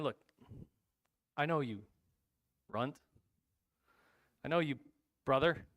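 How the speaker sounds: understated, measured contempt; brotherly sneer. Acted. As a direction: lightly sneer down at a kid brother. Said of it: "with that sneer in his voice".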